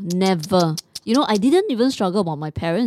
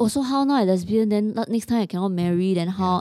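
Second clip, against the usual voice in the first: usual speaking voice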